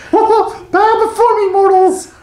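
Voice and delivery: high, laughing evil overlord proclamation; dark lord voice. Pretend. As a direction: boom it out like a villain demanding worship. Mock god speech in corporation joke.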